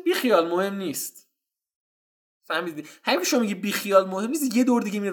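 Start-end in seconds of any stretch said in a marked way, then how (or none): 0.0-1.3 casual brush-off. Retold or imitated. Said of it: "گفتم".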